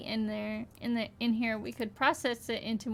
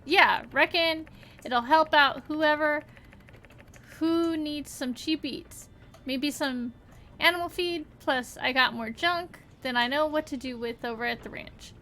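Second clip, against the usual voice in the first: put-on folksy country accent. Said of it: "I just had an accent all of a sudden".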